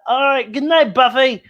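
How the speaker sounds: high, sing-song good night; mom voice. Acted. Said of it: "And she said".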